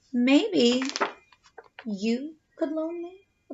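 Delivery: soft wheedling wolf voice. Acted. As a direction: ask for the sugar sweetly. Wolf's wheedling request.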